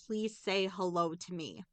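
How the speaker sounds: low, soft imitation of a tearful plea; retold tearful plea. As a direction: plead quietly, mildly imitating someone crying. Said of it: "he starts crying and says".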